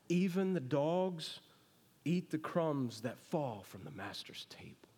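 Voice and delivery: a lowly woman whispering her plea; humble whisper. Retold or imitated. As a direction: beg humbly under your breath.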